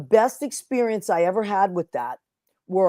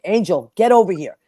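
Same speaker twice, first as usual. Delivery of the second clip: mock stern call; 4 dB louder than usual. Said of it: "I would pretend like he was in trouble".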